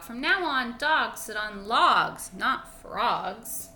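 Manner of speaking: loud, slow declaration; defiant frog. Acted. Frog changing the rules for the dog, loud. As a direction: lay down the new law.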